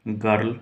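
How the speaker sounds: put-on girl said alone, clear and careful; careful isolated girl; pronouncing girl. Shown as a demonstration. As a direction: sound out girl on its own. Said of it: "इसको बोलेंगे".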